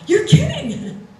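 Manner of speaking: high, loud and slow, drawn-out disbelief; mock disbelief. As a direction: stretch it out like you can't believe it. Told the light didn't go on.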